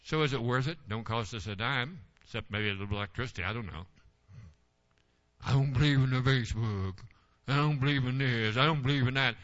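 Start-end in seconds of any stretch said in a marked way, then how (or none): 5.5-9.3 a hint of a stubborn grumbler, in a changed voice; lightly sends up a churchgoer who believes in nothing; mock skeptic.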